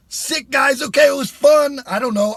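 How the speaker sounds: loud, high and upbeat; excited. Real, not acted. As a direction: pump it up for the viewers.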